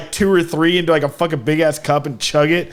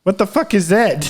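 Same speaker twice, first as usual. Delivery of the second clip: higher mock French-accented bafflement; French Kermit the Frog; 4 semitones higher than usual. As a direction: imitate a baffled Frenchman, amused. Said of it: "like a French Kermit the Frog".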